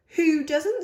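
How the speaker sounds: lightly voiced little girl, a touch indignant; a hint of a surprised little sister. A narrator's reading. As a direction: ask it as a small girl who can't believe it. Lola's indignant question.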